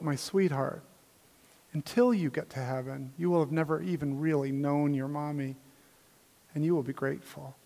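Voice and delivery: put-on soft, low voice to a grieving child; tender reassurance. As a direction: gently quote a pastor comforting a child. Pastor gently answers a bereaved child.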